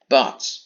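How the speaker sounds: But said alone, hit firmly, then a long pause; stress on But. Shown as a demonstration. Teacher showing the class the big important But, stressed then paused. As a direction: land on But and wait before going on. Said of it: "I need to pause and put real emphasis on that too".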